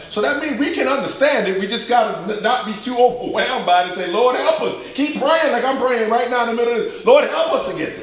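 high-pitched, loud exhortation; fervent preacher crying out in prayer; full-force preaching. Real, not acted. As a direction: urge the congregation with rising fervor.

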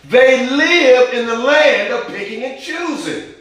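rising preacher's intensity; fervent preaching. Acted. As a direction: drive it home like a revival preacher. Preacher building to fervent peak.

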